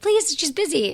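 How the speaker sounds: embarrassed hushed aside; hushed plea. Retold or imitated. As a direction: hush a friend so a star won't notice. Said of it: "I'm like".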